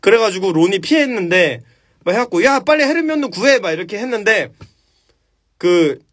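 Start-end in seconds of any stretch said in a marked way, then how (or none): 2.4-3.6 urgent call. Retold or imitated. Calling out during troll fight.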